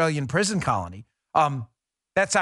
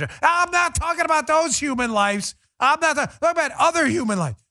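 mocking liberal voice; 12 semitones higher, 4 dB louder than usual. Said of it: "You guys support abortion".

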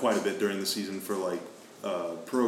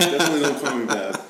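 laughing; 4 semitones higher, 5 dB louder, faster than usual. Real, not acted. Laughing protest about nickname.

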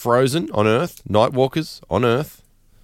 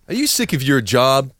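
infomercial; 6 semitones higher than usual. Pretend. Mock ascension ad, rising pitch.

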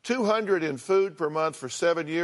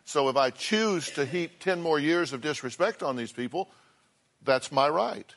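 mocking the son's calm excuse. Host mildly mocks the son's calm excuse, lightly imitating. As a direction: lightly voice the son's breezy self-justification. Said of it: "you say it very calmly".

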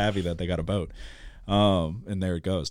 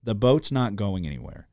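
retold yell; 4 semitones higher, 4 dB louder than usual. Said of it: "So I'm, like, screaming".

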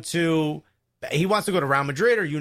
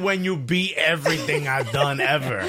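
sarcastic reading. Retold or imitated. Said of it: "read it sarcastically".

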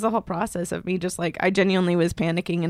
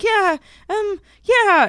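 imitated crying; 12 semitones higher, 5 dB louder, much slower than usual. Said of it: "I just started crying".

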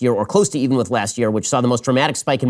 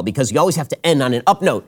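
usual speaking voice

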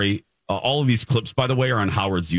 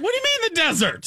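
Barbara impression; faster than usual. Barbara quoted, high fast.

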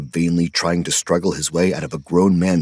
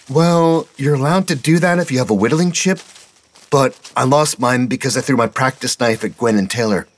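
put-on higher, eager boy voice; young boy Petey; 7 semitones higher than usual. A narrator's reading. Petey apologizing to his scoutmaster, higher boyish voice. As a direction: voice the kid, breathless and sorry.

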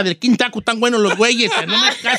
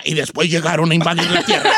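movie trailer voice; 6 semitones lower than usual. Retold or imitated. Don Cheto teasing the caller's voice, movie trailer narrator. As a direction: lower film-narrator intonation. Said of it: "pero pa' una película".

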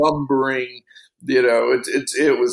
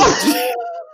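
laugh. Real, not acted. Laughs while retelling reply.

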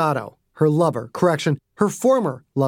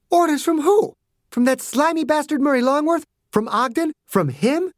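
furious demand; 12 semitones higher than usual. A narrator's reading. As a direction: hurl each question at them. Margaret furious at agents.

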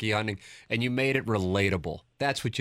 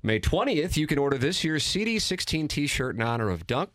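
radio ad read; 2 semitones higher than usual. Acted. Host to listeners, pitching the limited edition shirt. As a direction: stretch the key words to sell the shirt.

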